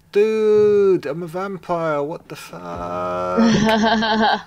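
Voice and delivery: high, loud freaked-out yelp; panicked dude voice. Retold or imitated. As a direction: shriek it like a panicked friend. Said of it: "go meet a friend to go".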